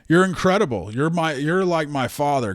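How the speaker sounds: high, gushing mock flattery. Kaiser flattering the gangster boss, hammed-up gushing.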